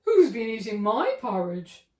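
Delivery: medium bear voice. Acted. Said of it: "asked the medium voice".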